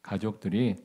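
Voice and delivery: slow, drawn-out sighing wonder; sympathetic musing. Retold or imitated. Fellow patient pities the old man's family, slow musing. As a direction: think aloud, dwelling on their hardship. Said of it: "그런 생각이 들더라고요".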